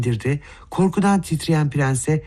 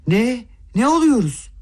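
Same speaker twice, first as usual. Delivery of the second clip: much higher, sharp disbelieving shriek; stunned cry; 8 semitones higher than usual. A narrator's reading. Mother hearing Aglaya's outburst, shocked higher cry. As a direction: cry out as if you can't believe your ears. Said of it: "hayretler içinde, öfkeyle, dehşetle haykırdı".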